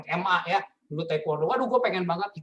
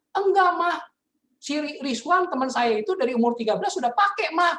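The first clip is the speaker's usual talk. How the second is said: naive son explaining; 9 semitones higher, 4 dB louder than usual. Retold or imitated.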